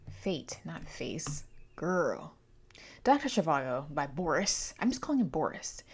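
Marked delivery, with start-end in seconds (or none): 0.1-2.4 whispered correction; a whispered fix to herself. Real, not acted.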